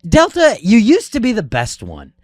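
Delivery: imitating a fed-up flight attendant venting; huffing and puffing. Flight attendant griping about Delta, mock huffy rant. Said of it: "all huffing and puffing".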